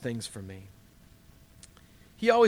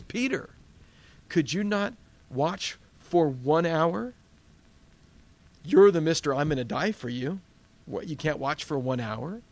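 Jesus rebuking. Acted. Jesus rebukes sleeping Peter.

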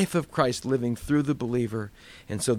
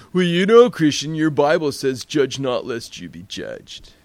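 lazily mock the stoner quoting scripture; druggy accent; 5 dB louder than usual. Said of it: "Sorry about the druggy accent".

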